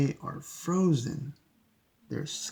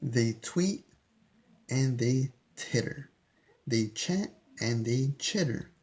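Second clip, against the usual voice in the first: put-on gentle, rhythmic read-aloud for kids; storybook reading. A narrator's reading. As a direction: read the rhyme to little ones, unhurried. Reading picture book aloud.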